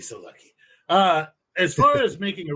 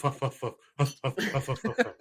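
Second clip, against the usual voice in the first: soft rhythmic mock huffs; imitated huffing; 2 semitones lower, 6 dB quieter than usual. Telling friends the noise he heard, quiet mock huffing. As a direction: mimic a panting noise under the breath. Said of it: "all I hear is".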